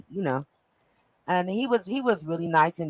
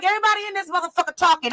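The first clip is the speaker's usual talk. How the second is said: retold loud snap; 10 semitones higher, faster than usual. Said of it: "I was like".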